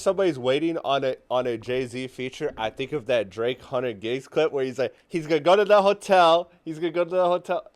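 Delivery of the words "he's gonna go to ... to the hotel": failed Canadian accent imitation. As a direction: try a Canadian accent on a rapper. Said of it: "That wasn't even close to his accent".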